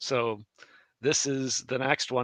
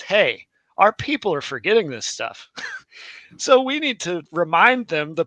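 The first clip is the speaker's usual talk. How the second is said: raised pitch, emphatic alarm; sudden realization; 4 semitones higher, 5 dB louder than usual. Acted. Masoretes noticing people forget, mildly alarmed exclamation.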